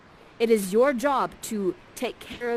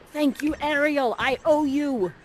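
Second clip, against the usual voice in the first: higher, brighter thanks; light thanks; 7 semitones higher, 4 dB louder than usual. Acted. Prospero thanking Ariel after the duel, lightly raised. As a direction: toss off thanks with a little lift.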